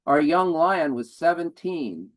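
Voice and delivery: deliberate narrative poem delivery; spoken poem with careful pauses; poetry reading. Acted. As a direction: recite a memory poem in measured phrases. Reads second poem aloud.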